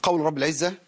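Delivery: normal talking voice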